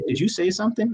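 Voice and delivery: lightly voiced clueless movie heroine; imitating oblivious question. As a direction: play her as having no idea. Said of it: "then she asks him".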